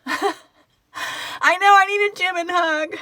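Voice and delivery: high, teary laugh-talk; half laughing, half crying from joy; laughing through tears. Real, not acted. Emotional fan livestream, crying.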